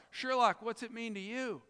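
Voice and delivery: lightly smug, pitched a little high; mildly smug question, softening at the end. Acted. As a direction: ask it with a touch of self-satisfaction. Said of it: "so he sort of smugly says".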